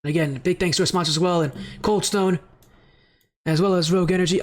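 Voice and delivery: short breaths between phrases; catching breath after an exciting series. Real, not acted. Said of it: "I'm out of breath here".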